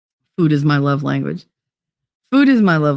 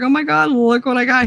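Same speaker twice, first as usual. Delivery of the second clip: retold excitement; 7 semitones higher than usual. Retold excited homecoming to husband.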